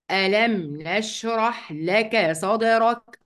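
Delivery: slow drawn recitation; Quran recitation. Acted. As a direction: recite the verse slowly. Recites the verse.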